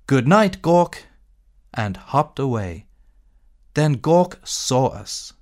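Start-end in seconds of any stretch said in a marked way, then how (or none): 0.1-1.1 higher, louder cheerful call of goodnight; shouted goodnight. Acted. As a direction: call it out across the cave, high and loud. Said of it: "The kangaroos shouted".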